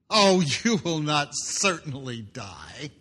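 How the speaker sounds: slow, drawn-out reassuring lie; Satan's smooth lie. Acted. Satan coaxing Eve that she will not die, slow and smooth. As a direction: coax her slowly into the lie. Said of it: "Satan's response".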